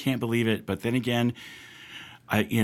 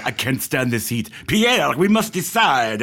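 put-on rough French accent; 2 semitones higher, 4 dB louder than usual. Festival judge to Pierre, lazily deliberating, mock French accent. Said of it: "I don't know what that accent was".

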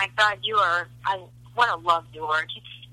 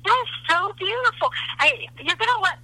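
moved to tears, voice lifting higher; really tearful; 5 semitones higher than usual. Real, not acted. Grandmother to grandson after his letter, tearfully touched. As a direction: gush through happy tears. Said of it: "get those tears in my eyes, like I have right now".

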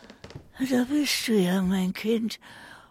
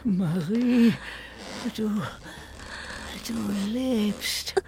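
waking from nightmare; 3 semitones higher than usual. Acted. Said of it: "Ich hatte einen Albtraum".

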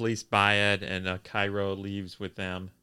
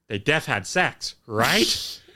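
teasing mock voice; 4 semitones higher, 7 dB louder, slower than usual. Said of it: "you wrote in your notes".

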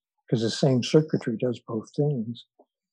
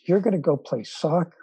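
lightly mocking jab, a touch higher; sarcastic; 5 semitones higher than usual. Jock teasing the overweight kid about soccer, mild sarcasm. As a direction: tease him with a hint of a sneer. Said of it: "in a sarcastic tone of voice".

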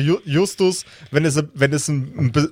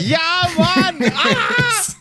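laughing; much slower than usual. Real, not acted. Bursts out laughing. (lautes Loslachen)

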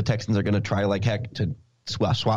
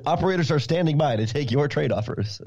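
cheesy TV-ad announcer voice; infomercial announcer; 3 semitones higher than usual. Acted. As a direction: sell it like a late-night infomercial. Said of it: "It sounds like an infomercial".

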